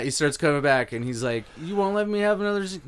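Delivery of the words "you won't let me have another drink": put-on drunk guy voice. Drunk customer quoted.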